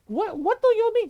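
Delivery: high, loud mock indignation; exasperated. Mother hearing her son call her aswang, exasperated. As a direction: act the baffled, offended mother.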